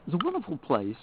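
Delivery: talking while crunching mints. Real, not acted. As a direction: crunch mints between words. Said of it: "Forgive the crunching".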